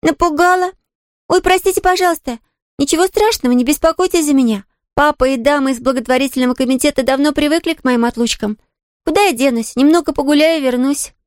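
put-on a young girl brushing off the maid's worry; little girl Pollyanna. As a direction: play the eager little girl, light and quick to reassure. Narrator voices Pollyanna, a girl.

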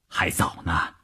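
low, soft bedside reply; intimate murmur. A narrator's reading. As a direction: murmur softly to a lover at dawn. Lovers murmuring in bed at dawn. (低声温存地挽留)

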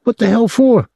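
put-on high, excitable young man's voice; a gawking kid, pitched high; young Claude, leering. A narrator's reading. Claude surprised.

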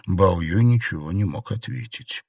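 ordinary delivery

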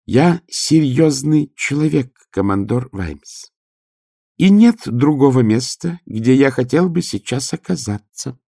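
speaking through chattering teeth; high and earnest, teeth chattering. Acted. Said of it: "стуча зубами".

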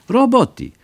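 a pushy officer mangling German, voiced high and loud; broken German militiaman. A narrator's reading. Militiaman insisting to the travellers, high put-on voice.

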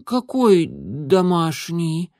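высокий медленный голос котёнка; растерянный малыш переспрашивает; котёнок в недоумении. A narrator's reading. (котёнок, высоко и медленно)

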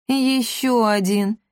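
slow sighing remark; weary slow sigh at another suitor; quiet sigh. A narrator's reading. Cat sighs wearily over another suitor, slow and quiet. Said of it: "тихонько вздохнул Акаций".

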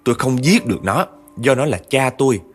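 a wronged ghost cursing her father, bitter and rising; the possessed man speaking as a murdered girl, furious; vengeful girl ghost. Retold or imitated. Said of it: "giọng của một người con gái ... uất nghẹn, căm hờn".

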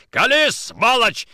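loud, high, drawn-out angry order; furious demand. Acted. Nikitin to suspected traitor, furious demand. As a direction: force a confession, slow and loud.

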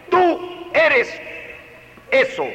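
high, loud accusing label. Shown as a demonstration. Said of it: "No le dijo".

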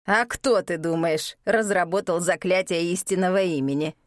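lightly voiced proud old man; proud boast. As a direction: boast it with pride. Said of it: "гордому заявлению". (гордо)

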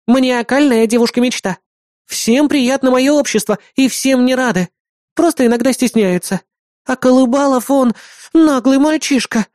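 put-on high, self-satisfied girlish voice; boastful girl Bismarck. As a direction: show off with smug pride. Бисмарк хвастается собой. (хвастливая девчонка, высоким довольным голосом)

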